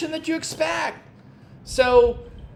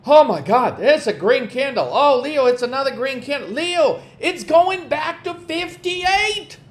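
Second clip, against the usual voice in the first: a mock panicking trader, pitched higher as the candles go green; panicky trader; 4 semitones higher than usual. Coach mimicking traders who panic over a bounce, mock whiny. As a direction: mimic a client whining each time the price moves. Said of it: "I get the most shit from traders".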